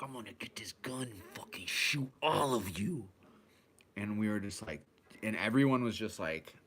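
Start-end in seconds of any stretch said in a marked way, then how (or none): 0.0-3.1 whispered threat; mock menacing whisper. A crazy man on the bus threatens to shoot everyone, whispered. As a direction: hiss the threat under your breath.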